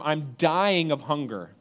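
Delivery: slow, drawn-out mock complaint; milk the hunger like a drama queen; dramatic whine. Kids overstating their hunger, slow dramatic whine. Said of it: "It's being dramatic".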